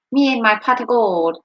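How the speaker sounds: amateur attempt at an Irish accent. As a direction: put on a poor Irish brogue. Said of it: "I can't do Irish".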